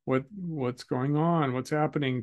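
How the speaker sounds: slow, calm coaxing; spoke very slowly. Retold or imitated. Victim calming the shooter, slow steady questions. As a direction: draw him out, slowly and gently. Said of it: "I just spoke very slowly to him".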